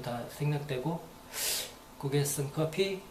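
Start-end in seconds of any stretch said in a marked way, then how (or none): 2.0-3.0 slow demo. Shown as a demonstration. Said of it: "요 정도까지".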